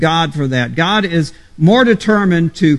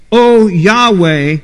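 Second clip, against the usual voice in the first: fervent appeal; 2 semitones higher, 4 dB louder, slower than usual. Shown as a demonstration. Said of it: "makes this appeal to God seem more personal".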